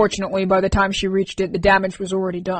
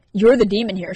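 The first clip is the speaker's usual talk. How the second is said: sharp; 4 dB louder than usual. Acted. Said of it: "she said sharply".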